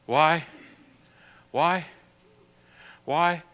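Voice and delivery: soft, low reading of the verses; scripture reading. Acted. Reads scripture softly.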